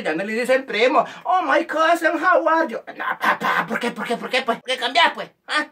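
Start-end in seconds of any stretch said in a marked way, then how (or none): 1.2-2.8 high, affected English greeting; stuck-up cousin. Acted. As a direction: gush in put-on English. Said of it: "por qué así dice". (saludo creído y agudo en inglés)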